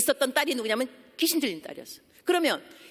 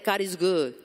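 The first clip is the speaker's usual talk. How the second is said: very slow, drawn-out church greeting; slow preacher's greeting call; call-and-response greeting; 3 semitones lower, much slower than usual. Retold or imitated. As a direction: stretch each word like leading the congregation. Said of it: "그랬어요".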